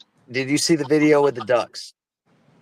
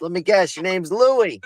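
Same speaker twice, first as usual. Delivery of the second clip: higher-pitched, lightly acted playful guess; lightly voiced bartender; 7 semitones higher than usual. Bartender guesses third duck's name.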